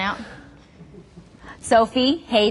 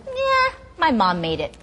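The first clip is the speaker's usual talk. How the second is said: put-on unimpressed kid; 7 semitones higher, slower than usual. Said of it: "And one is".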